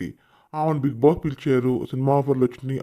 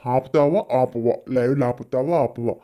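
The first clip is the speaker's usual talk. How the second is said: mock threat. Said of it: "బెదిరించారంట".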